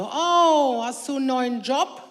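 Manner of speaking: loud mock-innocent opener; sarcastic fake surprise; sarcastic question. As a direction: feign surprise to needle him. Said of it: "sag ich immer so".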